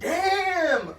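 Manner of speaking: shouted German "Damn!", high and loud; German accent. Retold or imitated. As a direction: belt out "Damn!" like an amazed German diner. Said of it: "a German accent".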